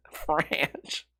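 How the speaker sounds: French as an unvoiced, laughed-out "franch"; laughing at slip. Real, not acted. Still cracking up at own slip, breathless "franch" for French. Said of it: "I'm still laughing at French".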